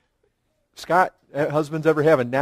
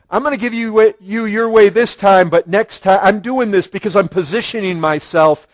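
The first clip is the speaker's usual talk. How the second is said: scheming bargaining; 2 semitones higher, 5 dB louder than usual. Retold or imitated. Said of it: "the bartering thing".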